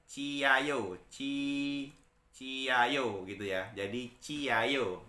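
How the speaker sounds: "Ciayo" stretched slowly, starting with a ch; J read as C. Shown as a demonstration. Teacher modelling J read as C, slow chi-a-yo. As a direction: draw out "Ciayo" with an unvoiced chi. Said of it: "dengan huruf C".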